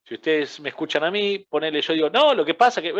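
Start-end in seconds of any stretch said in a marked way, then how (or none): 2.1-2.9 jumping pitch. Shown as a demonstration. Coach shows the class a jumpy voice, pitch leaping high. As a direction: voice leaps up high and loud, then drops. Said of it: "y voy bajando y subiendo".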